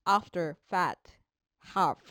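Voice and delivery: after, fat, half with a lip-bite F; English F sound. Shown as a demonstration. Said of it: "ハヒフヘホで言わないように".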